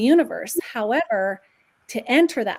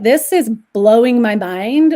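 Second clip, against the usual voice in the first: amazed; 10 dB louder than usual. Retold or imitated. Retold amazement, much louder.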